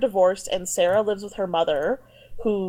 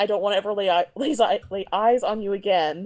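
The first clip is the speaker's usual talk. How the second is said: ordinary talk, nothing marked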